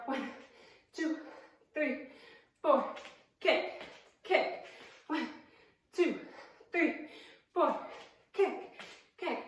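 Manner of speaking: slow count with a beat between each word; spaced-out, unhurried workout count. Shown as a demonstration. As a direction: count the punches and kicks out slowly, one at a time. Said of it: "you can also keep it slower".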